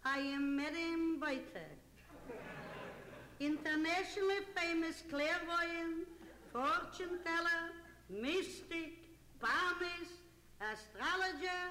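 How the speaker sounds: lightly voiced gypsy fortune teller; a hint of a theatrical gypsy seer. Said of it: "I am your friendly neighborhood gypsy".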